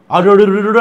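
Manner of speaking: mock stutter, syllables broken and repeated; imitating a stammer. Mocking the stammering clip speaker with a stutter. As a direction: stumble over అరుడు రుడు like a stammerer. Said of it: "అంటావేంట్రా నత్తి నా కొడక".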